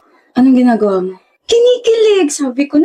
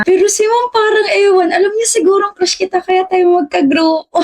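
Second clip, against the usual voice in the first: mock whine; 4 semitones higher than usual. Girl fake-whines about the teacher.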